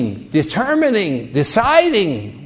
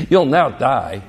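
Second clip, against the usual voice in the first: sly serpent; 5 semitones lower than usual. Acted. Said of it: "what's the serpent say?".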